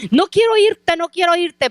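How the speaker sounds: the preacher imitates the woman shouting at her, a mild mock yell; imitated scream. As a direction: act out her frantic refusal, then let it settle. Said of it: "Y gritaba, ustedes no se imaginan cómo".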